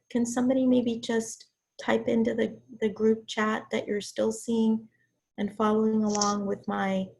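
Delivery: hoarse from being sick; rough, worn-out voice; raspy sick voice. Real, not acted. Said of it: "in my raspy, sick voice".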